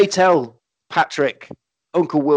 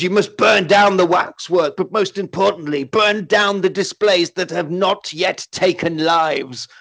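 mock urgent command; 3 semitones higher than usual. Old man sending the heroes off, hammed-up urgency. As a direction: push them out the door with hammy urgency.

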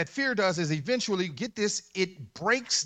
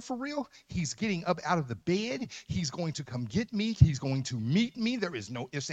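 normal talking voice

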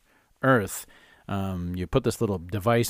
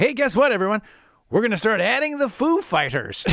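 mock excitement; 9 semitones higher than usual. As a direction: ham up the bosses' sudden excitement. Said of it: "they're all excited".

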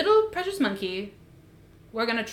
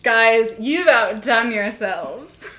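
hyped mock praise; 3 semitones higher, 9 dB louder, slower than usual. Hyped segment transition, acted quote.

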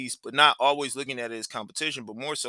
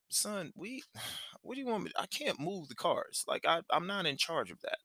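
high, softer pleading with sighs; helpless protest in a raised pitch, re-enacted; exasperated dad; 6 semitones higher, 7 dB quieter than usual. Dad retelling his answer to his son in traffic, exasperated.

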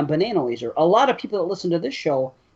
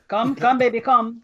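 a light hint of a German accent, slightly higher; mock German to a dog; 4 semitones higher than usual. Owner talking to his German shepherd, lightly mock German. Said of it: "He's gonna start speaking German to it".

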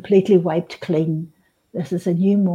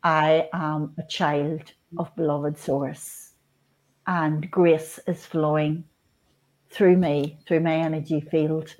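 lowered centering voice; 3 semitones lower than usual. Shown as a demonstration. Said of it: "just lower my voice".

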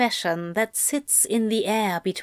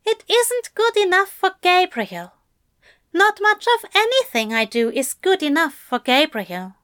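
raised, higher gentle angel; higher-pitched voice for the anxious angel; Aziraphale voice; 10 semitones higher, 4 dB louder, faster than usual. A narrator's reading. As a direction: lift the voice for the fussy angel. Aziraphale, defeated.

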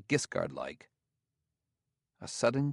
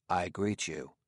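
oddly altered tones; 3 semitones lower, 3 dB quieter than usual. A narrator's reading. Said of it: "in tones oddly removed from his usual one".

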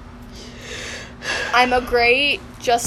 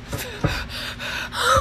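mock gasp; 12 semitones higher, 7 dB quieter than usual. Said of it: "she goes".

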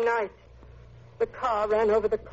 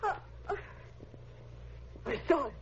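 nightmare moaning; 8 dB quieter than usual. Acted. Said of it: "You're having a nightmare".

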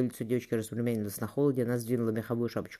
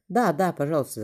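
excited shout; 5 semitones higher, 6 dB louder than usual. A narrator's reading. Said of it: "закричали дети".

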